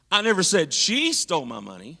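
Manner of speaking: she lifted and leaned on; stress on she. Shown as a demonstration. Preacher demos inflection, stressing she. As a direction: hit the word she. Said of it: "which word I put the voice inflection on".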